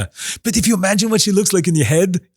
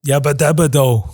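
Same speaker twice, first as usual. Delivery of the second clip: Fred-Homer mashup. Pretend. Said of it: "combining Fred Flintstone and Homer Simpson".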